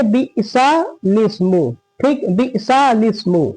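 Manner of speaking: "बिसा लिस्मु" slowly as bi'sa lis-mu; correct joining. Shown as a demonstration. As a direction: model "बिसा लिस्मु" slowly, split before laam. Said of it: "क्या पढ़ेंगे?".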